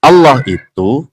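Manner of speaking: ALLAH with a heavy, dark double L; pronounced Allah. Shown as a demonstration. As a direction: stress the double L in Allah, slightly high. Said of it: "menjadi Allah".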